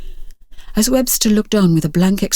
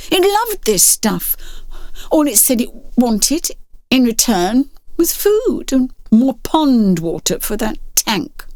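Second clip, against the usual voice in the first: defensive; 3 semitones higher, slower than usual. Acted. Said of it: "he said defensively".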